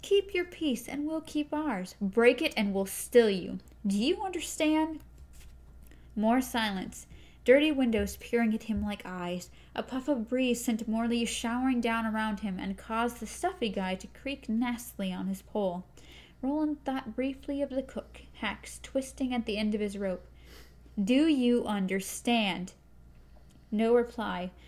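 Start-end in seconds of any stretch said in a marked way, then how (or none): 0.0-5.0 a gunslinger's grim threat; stern gunslinger warning. Acted. Roland's threat, retaken. 21.0-22.7 drawn out, menacing; gunslinger's slow final demand; slow stern question. Acted. Roland's last demand.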